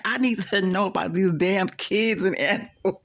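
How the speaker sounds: a hint of Dre's exasperation; lightly voiced demanding friend; mimicking Dre. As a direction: quote him half-mocking, mildly fed up. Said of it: "the way Dre said it".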